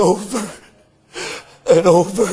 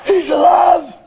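full-force preaching; 2 semitones higher than usual. Acted. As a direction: proclaim it to the whole church. Telling the resurrection morning.

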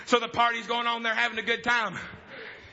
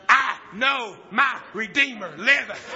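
slow proclaiming quote; 5 dB louder, slower than usual. Acted. Preacher quoting Job.

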